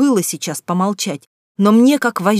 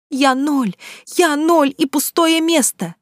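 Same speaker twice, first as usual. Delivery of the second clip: higher, bitter shouted echo; bitter cry; 7 semitones higher, slower than usual. A narrator's reading. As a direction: throw his words back. Daughter retorts bitterly.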